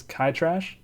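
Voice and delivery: "Kai Trash" as a question, first word rhyming with eye; unsure pronunciation. Real, not acted. Host guessing at a folklore dog's name, unsure pronunciation. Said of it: "I don't know how to pronounce this".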